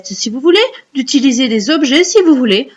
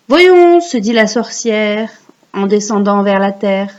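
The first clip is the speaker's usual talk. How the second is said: recite for repeating. Shown as a demonstration. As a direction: model the verse for children to repeat. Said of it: "vous allez réciter après moi".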